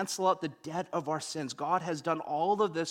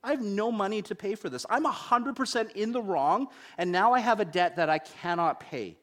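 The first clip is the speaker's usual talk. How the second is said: higher, fast, mock-panicked pleading; retold panic; 4 semitones higher than usual. Broke student facing the other driver, higher mock panic. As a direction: replay the moment the money ran out. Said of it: "I'm panicking 'cause I'm like".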